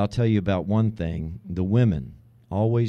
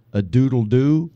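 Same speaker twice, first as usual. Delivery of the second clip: rooster crow; 2 semitones higher, 4 dB louder than usual. Acted. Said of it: "the one that just says".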